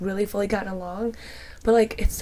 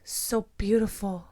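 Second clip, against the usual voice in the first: put-on toddler voice; slower than usual. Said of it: "he was like".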